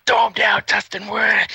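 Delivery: high, loud mock order; excited command. Conrad calls to his helper mid-beating, excited shout. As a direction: imitate a worked-up wrestler yelling to his helper.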